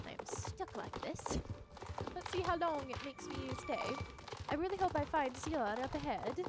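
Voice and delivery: put-on playfully stuck in a British accent; theatrical British adventurer. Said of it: "I'm stuck in this voice".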